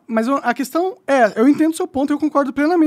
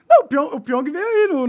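laughing; 4 semitones higher, 5 dB louder than usual. Real, not acted. Laughing at the question.

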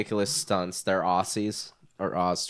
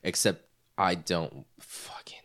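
whisper; 5 semitones lower, 6 dB quieter, slower than usual. Real, not acted. Grumbling under breath.

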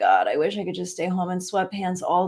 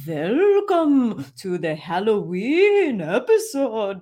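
slow, swooping, louder spooky Halloween accent; spooky accent attempt; 4 semitones higher, 5 dB louder, much slower than usual. Shown as a demonstration. Host showing the Halloween welcome she tried for, hammed-up spooky accent. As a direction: stretch it out in a hammy, muddled spooky accent. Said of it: "I tried to be like".

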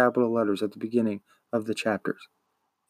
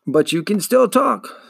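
slow, higher, probing; slow prodding; 8 semitones higher, 4 dB louder, slower than usual. A narrator's reading. Shopkeeper slowly prodding the shy boy, higher and probing. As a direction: draw the words out to needle him.

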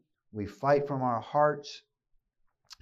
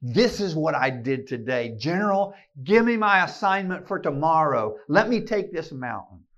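bold prayer; 5 dB louder than usual. Retold or imitated. Praying to God as General.

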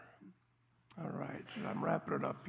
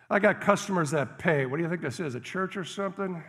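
angry cook; 8 dB louder than usual. Retold or imitated. Cook turning away cold woman.

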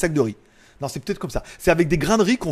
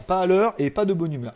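grumpy catchphrase; 3 dB quieter than usual. Shown as a demonstration. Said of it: "À l'heure et de bonne humeur".

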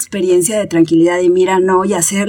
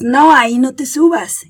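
scolding a puppy; 4 semitones higher, 3 dB louder than usual. Retold or imitated. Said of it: "le dices".

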